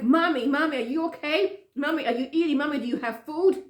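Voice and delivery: re-enacted daughterly fretting; anxious questioning. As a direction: fire off worried questions to mom. Worried daughter firing questions.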